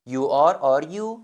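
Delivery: teacher stressing the swapped order; word order contrast. Shown as a demonstration. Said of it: "جای you و are رو".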